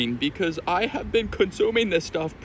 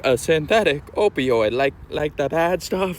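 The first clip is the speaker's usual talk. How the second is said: shocked disbelief; 4 dB louder than usual. Retold or imitated. Himself voiced in a story.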